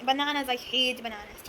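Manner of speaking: slow, drawn-out disgust at bananas; dragged-out groan of distaste; disgusted drawl. Real, not acted. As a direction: stretch it out like you can't stand them.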